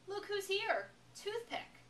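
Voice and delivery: high sneering bully voice; mean girl taunt. A narrator's reading. Brenda sneering at Jessica in the lunchroom, high and mocking. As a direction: jeer at her like a bully.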